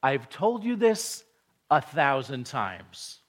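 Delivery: mild mock exasperation, slowing on a thousand times; exasperated dad. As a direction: play the fed-up father, lightly. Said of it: "you might say something like".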